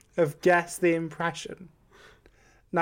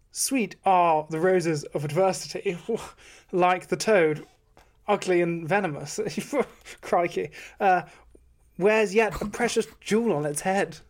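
posh English impression. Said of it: "I'm posh. I'm English".

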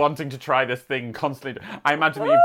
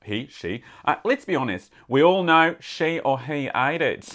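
letter read in a put-on Aussie accent; Australian accent. Podcaster reading a listener's letter on request, Australian accent. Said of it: "Please read in your best Australian accent".

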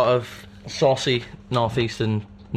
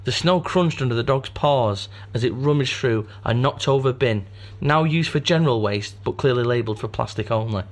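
story narration. Acted. Reads story aloud.

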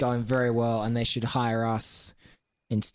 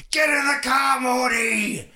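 high, loud Bogan yell at Morty; imitated screaming; 11 semitones higher, 5 dB louder than usual. Co-host imitates the clip's Rick screaming at Morty, high mock yell. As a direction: scream it like the cartoon Australian Rick. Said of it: "was him screaming".

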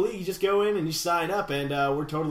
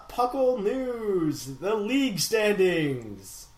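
slow, drawn-out title announcement; mock-grand show announcer; epic announcer; 3 semitones higher, much slower than usual. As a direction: announce it grandly, stretching the words. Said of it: "That was way too epic".

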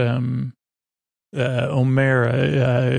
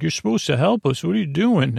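lightly voiced protesting villagers, higher pitch; complaining townsfolk; 4 semitones higher, faster than usual. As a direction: mildly mimic a crowd demanding help. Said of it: "everybody's like".

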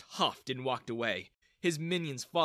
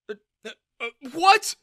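stunned; 10 semitones higher, 12 dB louder than usual. Acted. Father stunned.

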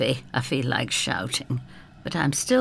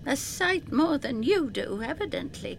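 sadly; 11 semitones higher, 3 dB quieter than usual. Acted. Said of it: "very sadly".

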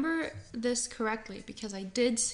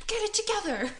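frustrated yell; 9 semitones higher, faster than usual. Retold or imitated.

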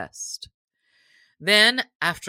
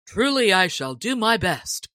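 sturdy; 3 semitones higher, 4 dB louder than usual. Acted. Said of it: "quoth Gilbert right sturdily".

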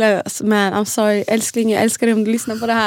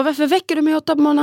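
mock grumpy snap; 5 semitones higher, much faster than usual. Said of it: "Jag blev skitsur".

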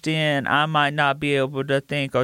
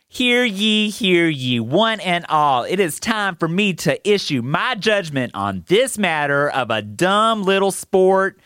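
town crier. Acted. Kid delivers verdict as crier.

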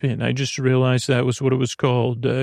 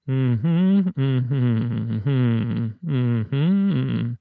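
absent humming noises; much slower than usual. Acted. Character hums between the dialogue.

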